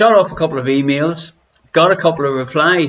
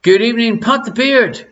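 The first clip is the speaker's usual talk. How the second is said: sing-song greeting; 7 semitones higher than usual. Acted.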